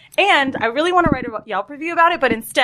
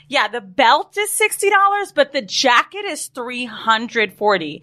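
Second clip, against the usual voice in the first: pitched up mock clerk voice; imagined clerk reply; slower than usual. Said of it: "I thought maybe she was gonna say".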